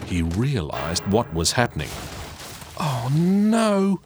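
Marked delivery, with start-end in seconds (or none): 2.8-4.0 put-on higher, louder alarmed boy's cry; a sudden panicked yelp; cried out. Jack sees the lamp toppling and cries out. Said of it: "he cried".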